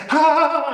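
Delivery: loud high pained groan; strained groan. Retold or imitated. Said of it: "I say".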